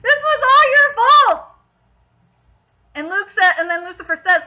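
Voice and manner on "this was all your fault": high, exasperated scolding; loud whiny blame; mad outburst. Retold or imitated. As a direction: re-enact your furious reaction, high-pitched. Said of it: "I was so mad at Cam".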